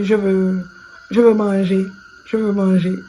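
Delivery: loud sing-song Cameroonian French, repeating the phrase; Cameroonian accent. Retold or imitated. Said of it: "je pense que c'est un accent camerounais".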